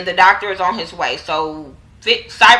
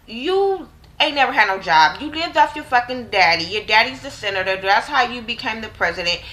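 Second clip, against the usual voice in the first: taunting commander; 3 semitones higher than usual. Retold or imitated. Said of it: "So the co-, commander, like".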